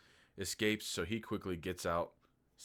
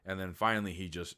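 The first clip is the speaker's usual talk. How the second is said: usual speaking voice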